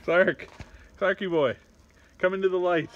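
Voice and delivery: teasing call to a struggling friend. Real, not acted. Calling out to struggling contestant.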